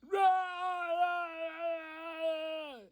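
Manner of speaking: very loud, high-pitched roar; long wailing creature roar; monster scream. Retold or imitated. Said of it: "looks at us and goes".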